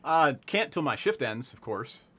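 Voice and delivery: put-on light southern deputy accent. Deputy declines a drink till shift ends, southern accent. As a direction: slip into a mild southern accent. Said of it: "she suddenly got a southern, southern accent".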